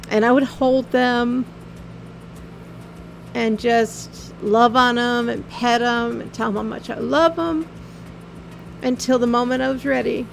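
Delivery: holding back tears as she remembers; getting emotional. Real, not acted. Telling viewers about holding her dying pets, voice tearing up. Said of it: "I know I'm getting emotional".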